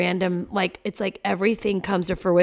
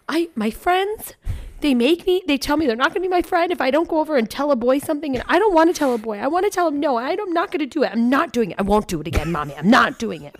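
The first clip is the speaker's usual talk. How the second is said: put-on much higher, louder child voice, mostly fast; imitating sobbing daughter; 7 semitones higher, 4 dB louder than usual. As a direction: mimic the distraught girl pleading. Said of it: "And she's sobbing".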